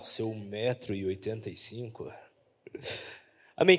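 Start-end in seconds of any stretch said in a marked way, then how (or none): 0.0-2.1 very low, quiet deep voice. Shown as a demonstration. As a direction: drop the voice way down for this. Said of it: "deixa eu mudar a voz pra falar".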